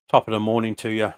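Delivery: put-on light, quick Irish accent. Greeting a late entry from Ireland, playful Irish accent. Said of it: "that was my best Irish accent".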